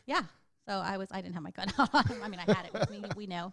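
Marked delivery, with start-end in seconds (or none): 1.8-3.0 laughing. Real, not acted. Laughing while admitting the gun.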